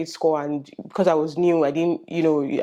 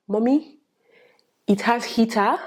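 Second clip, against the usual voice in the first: 1 imitating excited daughter; 4 semitones higher than usual. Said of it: "Tishe was like".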